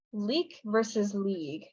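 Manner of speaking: LEAK short, LEAGUE long; slow contrast, short LEAK against lengthened LEAGUE; vowel length contrast. Shown as a demonstration. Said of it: "difference in the vowel length".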